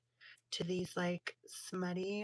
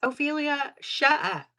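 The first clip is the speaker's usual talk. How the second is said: mock exasperation; 8 semitones higher, 9 dB louder than usual. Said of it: "it's like".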